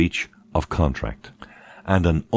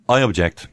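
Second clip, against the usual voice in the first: firm clear "I object"; clear, steady "I object"; nice and clear; 4 semitones higher than usual. Shown as a demonstration. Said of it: "nice and clear".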